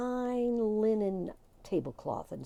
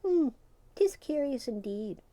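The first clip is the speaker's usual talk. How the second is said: startled; 6 semitones higher than usual. A narrator's reading. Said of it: "said their startled leader".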